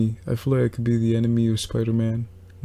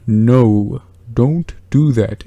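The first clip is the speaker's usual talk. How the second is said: giant hand voice; 7 dB louder, much slower than usual. Pretend. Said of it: "a giant hand came from the sky and it said".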